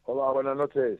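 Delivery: distant phone line; phone held away. Real, not acted. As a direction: far off on a bad line. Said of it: "A ver, que te oigo muy lejos".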